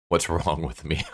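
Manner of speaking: breaking into laughter on the line; amused, laugh spilling out after it. Real, not acted. Narrator cracking up at the hero's odd attraction, laughing.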